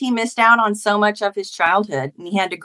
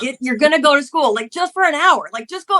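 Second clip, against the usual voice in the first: retold argument; 5 semitones higher than usual. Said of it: "argue and scream at each other".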